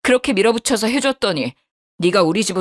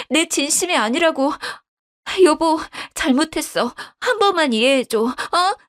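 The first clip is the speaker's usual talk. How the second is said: higher, stammering excuses to husband; a caught liar begging sweetly; wife pleading with her husband; 8 semitones higher than usual. Acted. Wife begs forgiveness.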